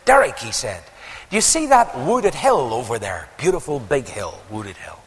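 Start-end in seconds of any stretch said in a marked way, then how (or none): 0.0-0.4 high, loud Scottish call of a name; imitated Scottish friend, pitched high. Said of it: "with his lovely Scottish voice". 1.3-5.0 lightly imitated Scottish accent. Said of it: "with his lovely Scottish voice".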